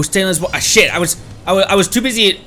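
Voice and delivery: ordinary delivery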